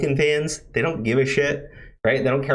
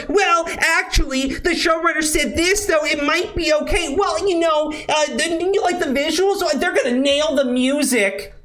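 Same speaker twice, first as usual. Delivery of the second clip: mocking well-actually guy; 12 semitones higher than usual. Imitating the asshole defending the showrunner, high nerdy squeal. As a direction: ham up the know-it-all defender. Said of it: "some asshole who shows up and goes".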